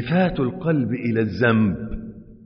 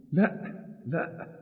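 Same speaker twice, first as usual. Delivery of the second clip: higher, pleading cries to God; mock panic; 7 semitones higher than usual. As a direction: beg in rising fear. Man panicking, calling on God.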